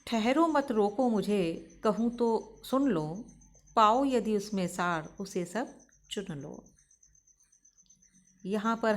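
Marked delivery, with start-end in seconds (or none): 0.1-6.6 measured verse reading, phrase by phrase; lightly declaimed Hindi verse; poem recitation. Acted. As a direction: recite the couplet with deliberate pauses.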